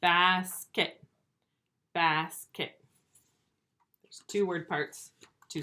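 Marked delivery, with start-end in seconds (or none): 0.0-2.8 each Basket split into "bas", pause, "ket"; break between syllables. Shown as a demonstration. Teacher showing the break is right here, split. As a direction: say Basket twice, halved into clear beats. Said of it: "It's right here".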